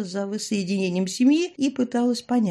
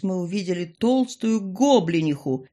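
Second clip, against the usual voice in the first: ordinary delivery, nothing marked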